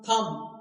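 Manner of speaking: थंब as "tham", silent B; थंब with no "b" heard; correct pronunciation. Shown as a demonstration. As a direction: close थंब on M, no B. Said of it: "इसे क्या बोलना है?".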